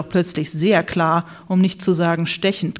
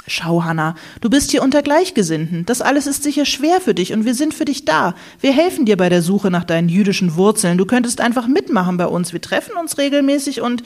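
coaxing reassurance; 4 semitones higher than usual. Acted. Jörg consoling Hanna.

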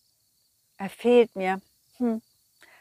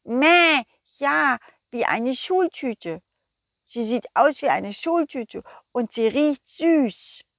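sheep voice; 2 semitones higher than usual. Acted. Sheep describes bag.

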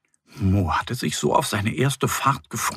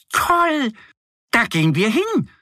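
higher, gleeful little duck; eager duck; 11 semitones higher, 3 dB louder than usual. A narrator's reading. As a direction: jump at the idea. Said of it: "sagt Annie".

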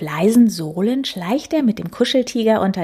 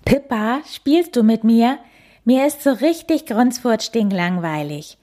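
high loud whiny call; 5 semitones higher, 3 dB louder than usual. Acted. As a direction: bawl it over the fence. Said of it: "plärt er über den Zaun".

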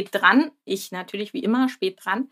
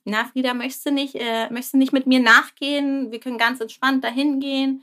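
lightly voiced coaxing dad, a bit higher; gentle coaxing; 3 semitones higher than usual. Papa suggests Frieda walks with him, gently coaxing. Father coaxing child in retold scene.

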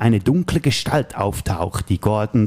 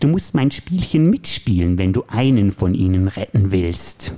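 Joker voice; slower than usual. Acted. Plays the Joker in the scene.

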